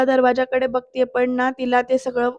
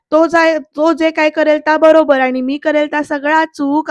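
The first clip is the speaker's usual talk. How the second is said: retold indignant complaint, slightly raised; protesting yell; 3 semitones higher than usual. Sarika protesting to Bayo about unfairness, mildly raised protest. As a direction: argue back with mild acted outrage. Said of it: "असं म्हणत ना ओरडत असते".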